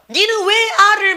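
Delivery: high, drawn-out scolding question; mock maternal scolding. Mother takes her child to task, mock scolding. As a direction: imitate a scolding mother, pitch jumping up.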